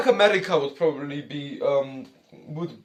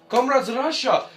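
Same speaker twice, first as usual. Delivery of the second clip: mock Russian accent; 6 semitones higher than usual. Reactor hamming up Russian patriot.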